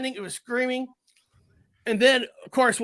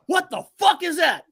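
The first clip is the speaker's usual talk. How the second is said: higher, louder startled outburst; shocked exclamation; 8 semitones higher, 4 dB louder than usual. Retold or imitated. Uncle spotting the creature from the car, retold shocked yell. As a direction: blurt it out like you can't believe your eyes.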